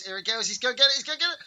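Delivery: rising, excited yell. Real, not acted. Gamer yelling as the rival charges in.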